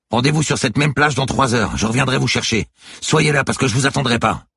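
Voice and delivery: high, loud, firm orders; urgent sailor's yell; shouted warning. A narrator's reading. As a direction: lay down terms over the storm. Sailor gives a rendezvous warning.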